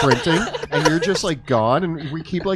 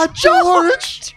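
laughing, high mock wail; mock grief; 7 dB louder than usual. Players joke-mourning George.

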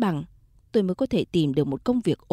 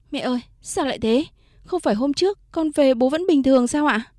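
distraught cry; 5 semitones higher, 5 dB louder than usual. Acted. Daughter asks about father's collapse.

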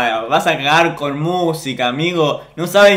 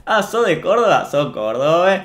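lightly mocking Córdoba accent. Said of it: "se ponen a imitar el acento cordobés". (acento cordobés burlón)

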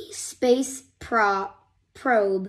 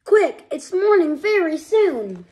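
urgent; 6 semitones higher, 5 dB louder than usual. Acted. Hubby urging.

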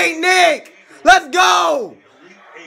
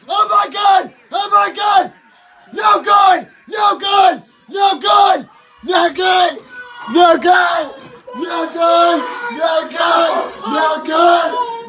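cheering at a game. Real, not acted. Fans chant at missed kick.

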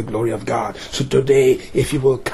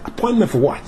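high-pitched, acted incredulous protest; indignant retort; 10 semitones higher, faster than usual. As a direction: throw the question back in mock outrage. Blind man retorts to the disciples.

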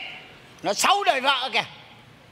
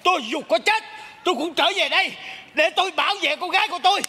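higher-pitched mock ghost of a husband; possessed by husband; 4 semitones higher than usual. Dead father vows to protect his daughter, possessed. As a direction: vow protection as the returning spirit. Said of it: "Chồng tôi mới nhập vô thầy".

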